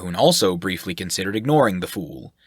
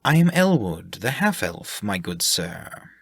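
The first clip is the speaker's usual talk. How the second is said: silky and sinister. Acted. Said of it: "slipped out of his mouth like silver".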